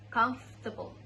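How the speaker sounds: British-style "comfortable" as "kumf-tuh-bul"; three-syllable British "comfortable"; British accent. Shown as a demonstration. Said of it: "In British accents, it sounds like".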